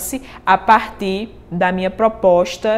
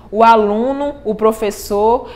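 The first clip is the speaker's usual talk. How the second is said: steady, rhythmic reading of the stanza; cordel verse recital. Shown as a demonstration. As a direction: give each line its metre. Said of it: "eu escolhi a palavra professor". (recitando a estrofe com ritmo)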